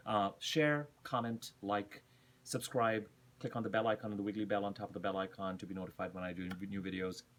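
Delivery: firm call to action; commanding. Real, not acted. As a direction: order them to share and subscribe. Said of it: "I know I sounded very commanding there".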